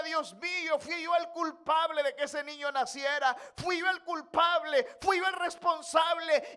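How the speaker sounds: shouted, anguished confession; David begging God, shouting his guilt; David's lament. Acted. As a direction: cry out your guilt to God. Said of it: "lloraba y le decía".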